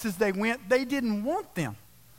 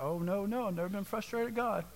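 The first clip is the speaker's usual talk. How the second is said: mock pious denial; 7 dB quieter than usual. Mocking congregants' pious denial.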